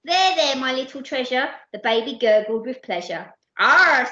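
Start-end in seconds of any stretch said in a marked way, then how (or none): 0.0-1.6 put-on raised, soothing baby talk; cooing. Comforting the crying baby, raised cooing. 3.6-4.1 loud, drawn-out "aww"; adoring sigh. Acted. Percy admiring the happy baby, adoring sigh. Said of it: "sighed Percy".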